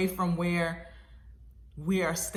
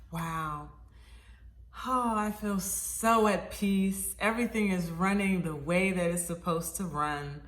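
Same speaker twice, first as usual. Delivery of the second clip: contented, unhurried recollected thought; a relaxed little sigh of relief; at peace. Retold or imitated. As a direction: savour the calm, easing into it. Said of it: "I really feel accomplished at this point".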